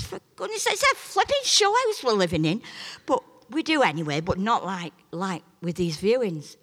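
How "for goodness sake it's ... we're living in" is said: exasperated husband. Retold or imitated. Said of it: "And Roy says".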